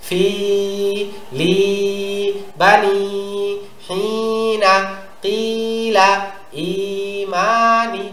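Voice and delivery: slow, level chant with long held vowels; reading practice recitation. Shown as a demonstration. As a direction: model each word for pupils, stretching the long vowels. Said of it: "এইভাবে".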